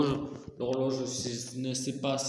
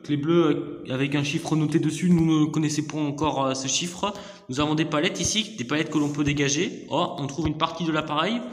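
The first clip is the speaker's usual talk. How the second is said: put-on southern French accent, louder; hammed-up accent du sud narration; 5 dB louder than usual. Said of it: "je peux essayer de faire l'accent du sud". (accent du sud forcé)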